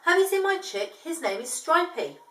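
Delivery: desperate. Acted. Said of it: "feeling a bit desperate".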